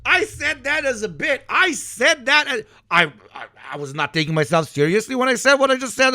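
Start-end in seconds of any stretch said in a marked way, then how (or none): 0.0-2.2 higher, louder, laughing through it; laughing protest. Real, not acted. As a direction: laugh while defending the joke. Laughing defence of his bit.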